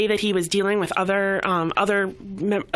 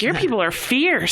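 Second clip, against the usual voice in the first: higher, emphatic pep talk; excited encouragement; 6 semitones higher than usual. Retold or imitated. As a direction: fire him up with pride. Telling client to be proud.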